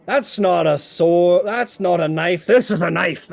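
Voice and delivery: lightly voiced boastful fighter, emphatic; scoff, then show off your bigger blade; punched, hearty one-upping; big warrior, scoffing. Game master plays Onthar.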